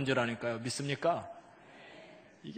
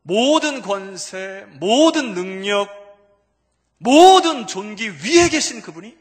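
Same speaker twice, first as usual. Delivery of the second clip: loud, high, slow proclamation; preaching at full force; 6 semitones higher, 18 dB louder, slower than usual. Real, not acted. Preacher proclaiming who Jesus is above all, loud slow proclamation. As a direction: draw out each 모든 at full voice. Preacher exalting Christ's authority.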